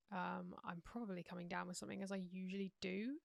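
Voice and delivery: sore throat, croaky and rough. Real, not acted. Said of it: "deal with my croaky voice".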